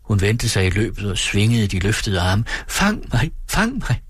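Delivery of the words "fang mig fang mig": playful call. A narrator's reading. Sick daughter calls to her father on the beach, high playful call. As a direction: call out like a child at play. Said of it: "råbte hun".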